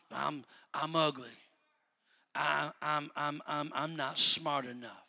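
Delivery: low, soft, halting self-pity; self-pitying mumble. Retold or imitated. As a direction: mope and stammer like a downcast believer. Mimics self-pitying believer.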